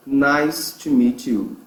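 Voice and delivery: "nice to meet you" slowed, each word clear; careful teacher's "nice to meet you"; slow model pronunciation. Shown as a demonstration. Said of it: "Como é a pronúncia disso?".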